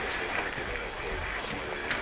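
long, low, quiet sigh. Acted. Officer sizing up the legendary insurgent, long sigh. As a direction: let out a slow, soft breath.

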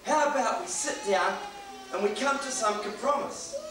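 mildly soothing negotiator bear; a touch of soothing persuasion. Acted. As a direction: offer it gently, in unhurried phrases. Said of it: "in very soothing tones".

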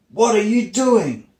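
high, loud protest; roaring sun. Acted. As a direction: roar out a demand, slowing on the last words. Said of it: "roared the sun".

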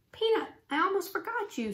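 high-pitched talk to a little pet; high, concerned little-girl line; fussing over pet. A narrator's reading. Girl talking to her pet mouse.

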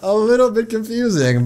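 grandma-like woman. Acted. Tiger owner answering the rescuer, grandma-like voice. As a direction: put on a hammy grandma. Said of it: "Make her sound exactly like a grandma".

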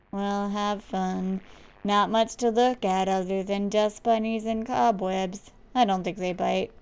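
level, unenthused character voice; deadpan, with little movement; bored worker. Acted. Worker chatting to kid about cobwebs, deadpan.

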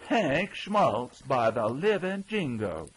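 loud, high-pitched astonished oath; flabbergasted cry of recognition; amazed exclamation. A narrator's reading. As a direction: shout the name in sheer disbelief. Second man amazed at Hank.

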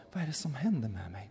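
Fatima, just coming round, asks quietly; dazed, quiet. Retold or imitated. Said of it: "hon kom tillbaka och sa".

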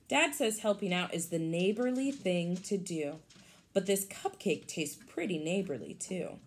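lively storybook read for a class; picture-book read-aloud voice; reading to children. Acted. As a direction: read it brightly to the kids.

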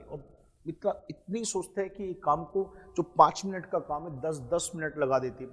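slow, drawn-out complaint about a lazy sister; mock exasperation. Teacher mocks his sluggish sister, drawn out and exasperated. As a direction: stretch it out like she's painfully slow.

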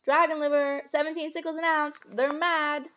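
high-pitched indignant woman; indignant shopper. A narrator's reading. Plump woman outside apothecary balking at prices, indignant. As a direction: complain in a high, scandalized voice.

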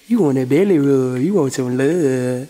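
low, crooning pet talk; doting pet talk. Real, not acted. Fussing over Cashy with belly rub.

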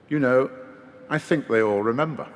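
understated, wondering surprise; mildly surprised. Retold or imitated. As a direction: quote him with a touch of surprise. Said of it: "in a rather surprised voice".

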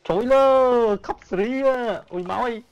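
high, loud panicked calls; yelling at teammates in a panic; frantic shouting. Real, not acted. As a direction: shout over the chaos. Frantic gameplay moment.

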